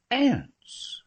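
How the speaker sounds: loud high falling "Aunts."; emphatic confirmation. Acted. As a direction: hit "Aunts." up high and bring it down firmly.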